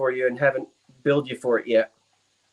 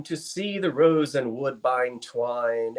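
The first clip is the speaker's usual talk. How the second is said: slow, measured verse reading; poem recitation; 4 semitones lower, slower than usual. Acted. Reciting a Burns verse before being asked to slow down, measured recitation. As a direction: recite it as old verse, unhurried.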